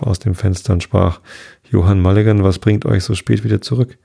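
ruhige Vorleserstimme für ein Märchen; erzähl es wie eine alte Sage am Abend; Märchen vorlesen. A narrator's reading. Märchen vorgelesen. (ein Märchen gemächlich vorgelesen)

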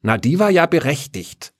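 high, dry granny remark; old woman coolly commenting; dry old lady. Acted. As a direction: state it drily like a tart old woman. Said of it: "konstatierte die Oma".

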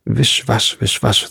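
hissed out sharply; hissing snake. Acted. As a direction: hiss it like an angry snake. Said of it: "zischte fürchterlich".

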